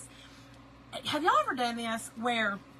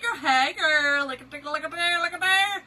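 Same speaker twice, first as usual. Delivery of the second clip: excited calling; 5 semitones higher, 9 dB louder than usual. Retold or imitated. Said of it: "I said".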